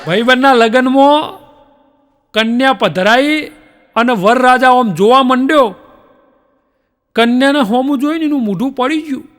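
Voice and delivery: normal talking voice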